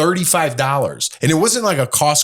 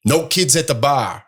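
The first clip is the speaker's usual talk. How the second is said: put-on slow, slightly off-target Boston accent; put-on Boston accent for a quote; 3 semitones higher than usual. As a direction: imitate a bar worker with a Boston accent. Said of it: "oh, that was a Boston accent".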